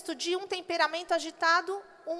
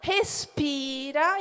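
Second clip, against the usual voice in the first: slow, drawn-out gentle calming; steady a crying child; mother soothing her daughters slowly; 3 semitones lower, much slower than usual. Retold or imitated. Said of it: "eu falava".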